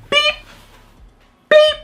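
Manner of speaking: flat beep beep like a heart monitor; imitated monitor beep. Reviewer mocking the dying mother scene with monitor beeps. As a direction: do the hospital machine with your voice.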